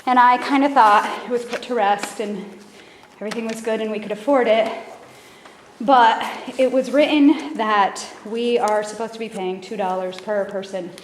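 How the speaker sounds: slightly out of breath, still talking. Real, not acted. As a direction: speak a little out of breath from hurrying. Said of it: "out of breath 'cause I'm running down".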